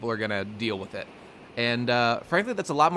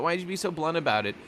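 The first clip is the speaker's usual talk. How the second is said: quicker mock complaint; 4 semitones higher, faster than usual. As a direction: rattle off the complaint again, lightly mocking. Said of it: "everyone here ... is all getting on his case".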